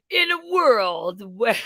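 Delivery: slow, booming trailer narrator; movie trailer voice. Pretend. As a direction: epic voiceover announcer. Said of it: "I was kinda hoping for".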